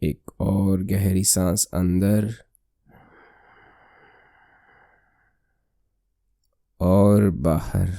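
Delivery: slow, slightly softened meditation voice; guided meditation. Acted. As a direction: lead the breath slowly, with long pauses. (धीमी, शांत ध्यान कराने वाली आवाज़)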